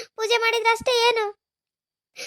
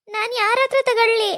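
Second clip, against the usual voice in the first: crying. Acted. Widow asking who will bless her, sobbing. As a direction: cry it out, stressing ಹತ್ರ through tears. Woman lamenting her lost husband.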